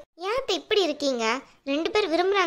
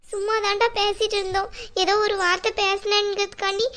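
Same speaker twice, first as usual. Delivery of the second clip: weepy, slightly raised account of being wronged; tearful complaint; 3 semitones higher than usual. Acted. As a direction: sob out the grievance to your son. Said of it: "சரிம்மா, அழாதீங்க".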